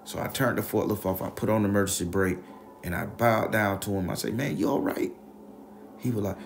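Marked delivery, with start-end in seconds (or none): 4.3-5.1 breathy whisper, worried; whispered concern. Retold or imitated. Checking on injured coworker.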